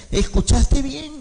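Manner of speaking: high, slow sing-song repeat of the question; drawn-out doubtful mother. Retold or imitated. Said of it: "volvió a preguntarle". (madre que vuelve a preguntar con tono cantado y lento)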